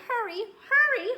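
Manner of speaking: high, loud urgent call. A narrator's reading. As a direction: call him home, fast, frantic. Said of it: "she called".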